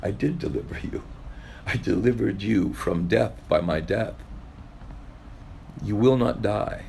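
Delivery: soft, gentle reassurance as the Lord; the Lord gently answering a pleading believer. Acted. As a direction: speak it tenderly, the Lord comforting. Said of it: "he says gently".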